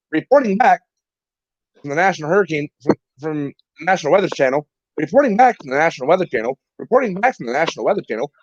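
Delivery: repetitive mock weather-report sign-on; lightly mimicked, looping reporter patter; imitated weather reporter. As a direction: parrot a reporter's stock line over and over. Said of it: "the only thing I hear for the first ten minutes is".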